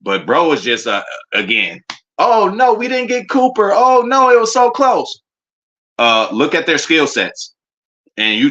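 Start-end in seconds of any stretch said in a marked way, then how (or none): 2.2-5.2 hammed-up fan crying over a missed pick; mock whining. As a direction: fake a sad fan's groan. Mocking disappointed rival fans.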